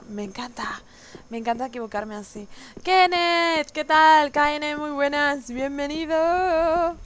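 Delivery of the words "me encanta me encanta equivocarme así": whispered dry irony; sarcastic whisper. Real, not acted. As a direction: whisper it, clearly not meaning it. Sarcastic after a mistake. (susurro sarcástico)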